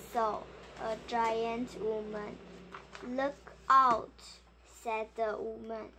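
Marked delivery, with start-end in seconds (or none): 3.0-4.2 warning shout. Acted. Woman warns Jack of danger.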